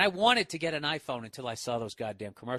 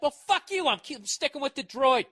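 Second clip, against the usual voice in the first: much higher, louder fuck-off; defiant shout; 12 semitones higher, 7 dB louder than usual. Pretend. Telling off the iPhone commercial, high defiant shout. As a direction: yell back at the ad.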